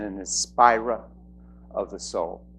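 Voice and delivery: inspirer with a New England dropped r; New England accent. Real, not acted. Host introducing a speaker, slipping into a New England accent. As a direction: end "inspirer" on an open New England vowel. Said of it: "That's my New England accent".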